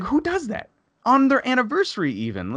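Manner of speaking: very high, incredulous outrage. Retold or imitated. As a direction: reenact it indignantly, pitch soaring. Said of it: "I pretty much raised my voice at her".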